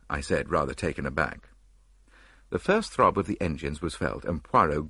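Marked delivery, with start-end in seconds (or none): none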